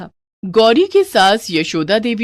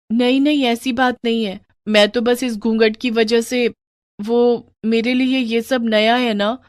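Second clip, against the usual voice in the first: put-on higher-pitched, gentle young bride; reassuring young wife; 4 semitones higher than usual. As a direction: soothe your husband's worry. Voices wife reassuring husband.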